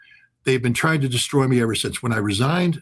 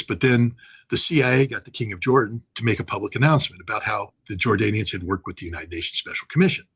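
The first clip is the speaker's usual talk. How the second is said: ordinary talk, nothing marked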